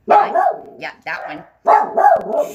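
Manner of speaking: telling viewers which dog, thrilled and drawn out; excited. Real, not acted. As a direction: stretch it out with excitement. Pointing out her tiny dog.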